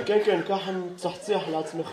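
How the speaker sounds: low, soft, uninterested dentist; charisma-free dentist. Acted. Dentist brushing off a patient, low and charisma-free. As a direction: drone it quietly without any charisma. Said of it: "זה רופא שיניים בלי כריזמה".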